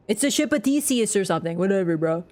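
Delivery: lazy dude bro dismissal. Pretend. Brushing off a chat correction as a dude bro. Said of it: "the dude bro voice".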